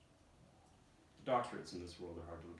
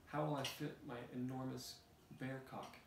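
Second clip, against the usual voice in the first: whiny bear; 5 semitones higher than usual. Acted. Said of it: "The little bear in the cage cries".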